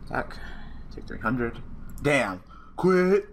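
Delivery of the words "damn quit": much higher, louder burst of glee; gleeful shout. Real, not acted. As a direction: crow over the win. Opponent gives up mid-duel.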